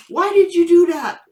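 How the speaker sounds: loud high scolding of the puppy; mock scolding. Owner scolding her puppy in the retelling, loud mock telling-off. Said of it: "And then".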